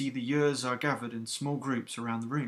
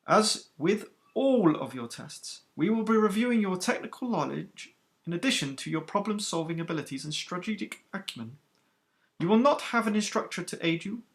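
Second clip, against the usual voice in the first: stern captain, higher and louder than the narration; iron-voiced captain; 7 semitones higher, 4 dB louder than usual. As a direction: rebuke the recruits who kept chattering. Captain briefs the trainees.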